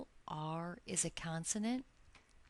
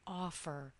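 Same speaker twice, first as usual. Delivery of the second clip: "Offer" as OF-fer, falling after the stressed start; stress on first syllable. Shown as a demonstration. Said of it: "The first syllable in offer is stressed".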